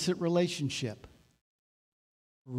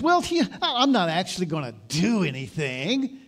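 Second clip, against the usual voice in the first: defensive protest; 2 semitones higher, 4 dB louder than usual. Retold or imitated. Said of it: "And we'll protest".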